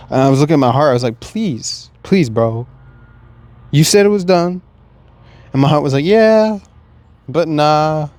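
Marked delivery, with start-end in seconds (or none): 1.2-4.6 rising, louder desperate plea to his own heart; pleading. Retold or imitated. 6.0-8.1 the heart taunts him; heart's cheeky reply. Retold or imitated. His heart answers him.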